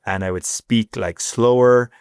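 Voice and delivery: slow down and enunciate; deliberate, careful delivery with drawn-out words; slowed, enunciated speech. Shown as a demonstration. Newcomer showing how he made himself understood, slow and enunciated. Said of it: "I was trying to enunciate myself better".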